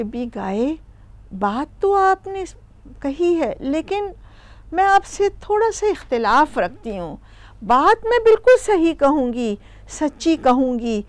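gentle, affectionate disagreement; lightly voiced goat, kind and polite; lovingly. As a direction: disagree tenderly, without any edge. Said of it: "بڑے پیار سے کہتی ہے".

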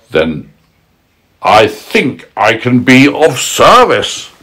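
crafty wolf offering help slowly. Acted. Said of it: "said the wolf".

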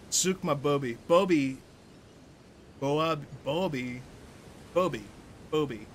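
"booby" repeated on its own as a pronunciation demo; demonstrating pronunciation. Shown as a demonstration. Showing a friend how to say it, careful pronunciation of "booby". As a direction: say "booby" several ways, practising the sound. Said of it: "That's how you say that".

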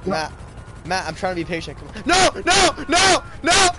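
patient words, then a high loud yell of no; calm turning angry. Real, not acted. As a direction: strains to stay calm, then snaps into shouting. Impatient waiting turns to yelling.

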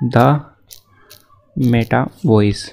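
Meta Voice drawn out very slowly; slow dictation. Shown as a demonstration. YouTuber telling viewers what to search, very slow. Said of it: "यहाँ पे search करना है".

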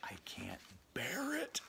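whispered pun. Real, not acted. Joking with the kids after laughing, whispered. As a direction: whisper the joke, still amused.

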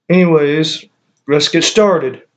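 speaking around held vape; talking with vape at lips. Real, not acted. Seen 0: Vape tip rests against his lower lip while he talks.

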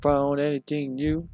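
light imitation of a game character's accent; a hint of a copied accent; Mark's accent. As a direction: echo the character's line, lightly mimicking his accent. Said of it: "Mark's accent".

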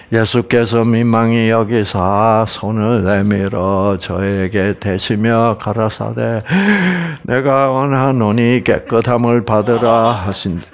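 flat dutiful reading. Shown as a demonstration. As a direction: read the verse dry and unmoved, no feeling. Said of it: "이렇게 읽지 마시기를 바랍니다".

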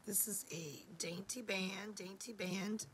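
whispered through a lost voice; breathy whisper, voice gone. Real, not acted. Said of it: "I've lost my voice".

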